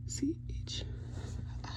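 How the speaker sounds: spelling it out quietly to oneself; under the breath. Real, not acted. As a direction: count off the letters under your breath. Counting letters under her breath.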